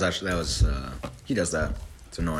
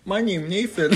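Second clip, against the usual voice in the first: mock silly voice. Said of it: "let me do it again".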